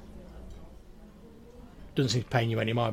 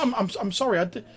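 high, louder stammering sprite; Grimwald, squeaky apology; 11 semitones higher, 5 dB louder, faster than usual. Acted. Flustered sprite apologises to a guest, squeaky stammer. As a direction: trip over the apology in a squeak. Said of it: "in, like, a really, like, squeaky, high-pitched voice".

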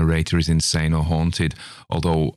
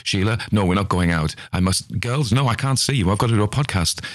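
obsessive brushing off; 4 semitones higher than usual. Pretend. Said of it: "I must do podcast episodes".

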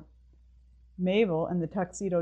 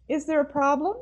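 called out; 9 semitones higher, 6 dB louder than usual. Acted. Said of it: "Missus Yardley called".

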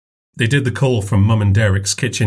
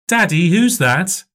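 put-on little girl voice; 8 semitones higher, slower than usual. A narrator's reading. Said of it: "Maisie asked".

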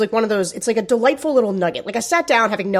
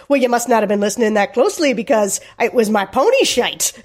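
put-on Irish accent. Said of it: "Sarah's doing a spot on Irish".

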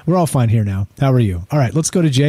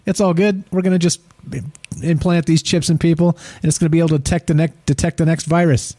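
breezy mocking of a TV host; mock casual; 3 semitones higher than usual. Mocking sixty Minutes hosts, mock breezy and casual. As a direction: shrug it off like it's nothing. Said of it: "talking about this shit all casually".

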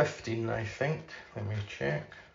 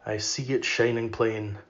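poem recitation. Acted. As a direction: let each line of verse hang in the air.

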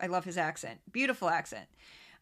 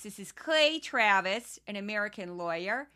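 crazy Midwestern accent. Shown as a demonstration. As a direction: read the bio in a hint of a Midwestern accent. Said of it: "use his title in this voice".

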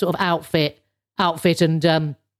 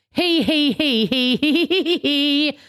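high breathy giggles before speaking; giggling; 5 semitones higher than usual. Real, not acted. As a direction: giggle through the start of the line.

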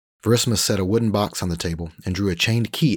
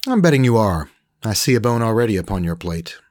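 higher, louder smug Frenchman; Frenchman Rolf; 4 semitones higher, 6 dB louder than usual. Acted. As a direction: sell it like a slick French trader. Rolf teasing.

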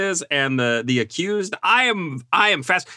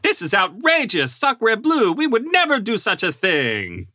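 put-on French accent; 9 semitones higher than usual. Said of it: "the French looked at this movie and were like".

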